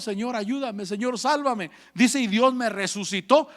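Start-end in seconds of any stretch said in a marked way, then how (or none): 0.0-1.7 humble plea. Retold or imitated. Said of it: "Hasta que clamó a Dios".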